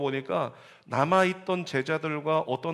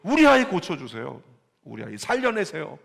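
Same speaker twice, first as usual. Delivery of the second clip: angry pleading parent; 2 semitones higher, 7 dB louder than usual. Retold or imitated. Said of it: "화를 쏟아내면서까지도".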